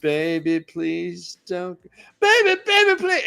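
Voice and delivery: hammed-up pleading croon; impression of a singer. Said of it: "like a singer".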